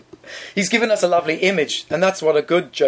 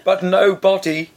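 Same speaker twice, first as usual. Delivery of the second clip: ghost voice. Acted. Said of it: "I'll read it in a ghost's voice".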